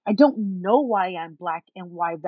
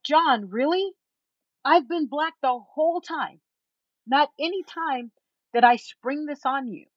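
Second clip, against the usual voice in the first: higher-pitched offended protest; 6 semitones higher than usual. Retold or imitated. Woman confronting her boyfriend over her race, offended. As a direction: protest in indignant disbelief, retelling it. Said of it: "I'm offended".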